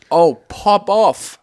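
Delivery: high, loud, slow cheer; mock hype. Host shows the slang's new use, loud high cheer. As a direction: drag it out like a proud cheer. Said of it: "And now it's like".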